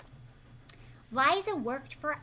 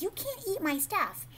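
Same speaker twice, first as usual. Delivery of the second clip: cranky gardener; 8 semitones higher than usual. Retold or imitated. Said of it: "So the gardener was like".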